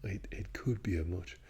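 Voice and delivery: work-in-progress Irish accent. Shown as a demonstration. Vlogger practising for fun, rough Irish accent. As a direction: have a playful go at Irish. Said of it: "bit of practice to do with the Irish".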